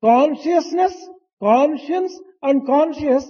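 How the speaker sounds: conscience and conscious said slowly and apart; Consciousness, conscience and conscious each set apart deliberately; slow, careful listing of the three terms; three terms listed carefully. Shown as a demonstration. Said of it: "are the three".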